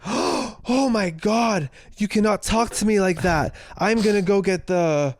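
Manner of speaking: high, drawn-out scandalized imitation; mock outrage. Offended man threatening to report two friends, mock outrage.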